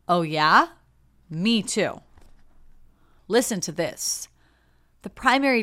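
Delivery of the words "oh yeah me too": louder, pushy oh yeah before the me too; one-upping me too. Retold or imitated. A one-upper hijacking a friend's story, louder and pushy. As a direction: cut in to make it about yourself. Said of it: "That is different from".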